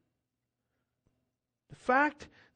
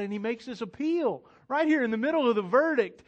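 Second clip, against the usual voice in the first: ordinary talk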